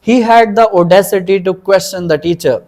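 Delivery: slow, clear example-sentence reading. Shown as a demonstration. Teacher reading an example sentence to students, slow. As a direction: read the sentence slowly for students. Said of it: "example sentence".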